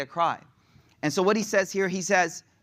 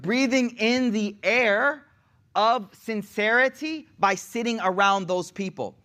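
slow savoring; 6 semitones higher, slower than usual. Acted. Repeats the savoring phrase.

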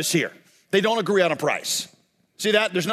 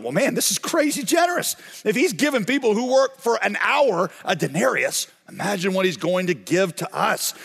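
excited; 2 semitones higher than usual. Acted. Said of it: "they start to get excited".

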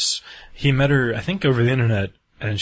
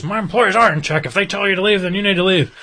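firm reply; 9 semitones higher, 4 dB louder than usual. Retold or imitated. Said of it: "And he goes".

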